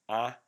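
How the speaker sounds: Ah held as the first syllable of about; syllable demo. Shown as a demonstration. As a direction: open the mouth on Ah. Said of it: "you go".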